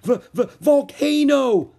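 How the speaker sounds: high, loud stammering panic; terrified, tripping over the word; boy stammering out the danger; stuttering in panic. A narrator's reading. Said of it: "stuttered Jack".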